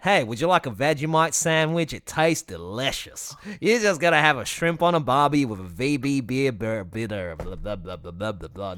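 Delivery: hammed-up Aussie caricature; broad Aussie, tumbling into blah-blah gibberish; Australian accent. Imagining the character speaking like that, hammed-up Australian accent. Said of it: "Could you imagine I speak like that?".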